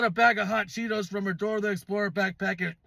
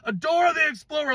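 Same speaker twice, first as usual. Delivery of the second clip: higher and louder in disbelief; shocked exclamation; 7 semitones higher, 4 dB louder than usual. Real, not acted. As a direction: call it out like you can't believe your eyes. Disbelief at a kid's suitcase.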